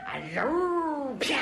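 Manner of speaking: drawn-out whoosh, then a sharp smack; whoosh and smash. Retold or imitated. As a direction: mimic a flying leap ending in a crash. Imitates the leap and crash.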